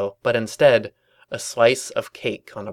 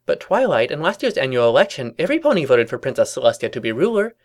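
louder, emphatic cartoon objection; puzzled pony; 3 semitones higher, 5 dB louder than usual.

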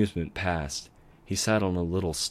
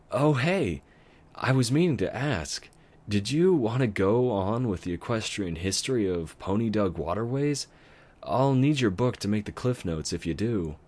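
put-on a higher, brighter kid voice; lightly voiced young dragon; 4 semitones higher, 3 dB louder than usual. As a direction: play the cheeky baby dragon. Spike voiced by narrator.

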